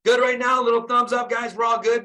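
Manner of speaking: rally the group with pumped-up energy; fired up. Real, not acted. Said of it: "I'm getting all fired up".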